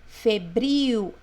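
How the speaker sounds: Febril with a strong, stretched BRIL; stress on BRIL. Shown as a demonstration. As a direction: lean on the final syllable of Febril. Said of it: "Acento mais forte é o bril". (Febril com acento forte no bril)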